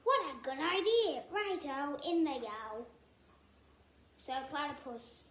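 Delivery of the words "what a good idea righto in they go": Dingo pleased. Acted. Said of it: "Dingo laughed".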